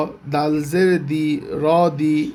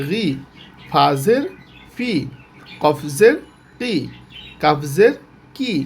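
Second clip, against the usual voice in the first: drilled letter recitation; slower than usual. Shown as a demonstration. Teacher drilling students through every letter with জের, chanting. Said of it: "আবার শুরু থেকে যদি বলি".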